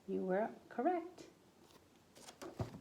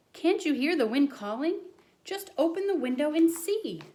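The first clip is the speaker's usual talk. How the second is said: high, louder eager call; high eager childlike call; excited boy; 7 semitones higher, 7 dB louder than usual. Acted. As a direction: urge them to listen. Boy calls out at story end.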